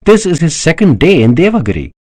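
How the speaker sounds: high-pitched, rising urgency in the argument; heated insistence. A narrator's reading. Daksha insists to Kanakla that Shiva is their savior, heated. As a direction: argue your case with mounting fervour.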